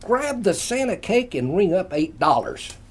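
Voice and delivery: calling across room. A narrator's reading. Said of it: "Ray yelled across the room".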